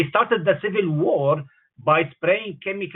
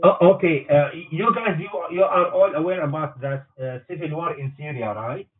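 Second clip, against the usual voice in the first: speakerphone; 7 dB louder than usual. Real, not acted. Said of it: "Yes, I'm on speakerphone".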